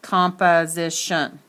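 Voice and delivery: composition sounded out with uh in the middle; schwa in composition. Shown as a demonstration. Teacher reading the dictionary mark, uh in composition. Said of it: "it's gonna say uh".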